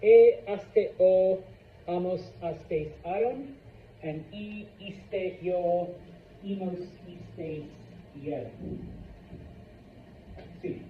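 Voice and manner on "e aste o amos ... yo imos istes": Spanish endings spelled out slowly; slow drill of verb endings. Shown as a demonstration.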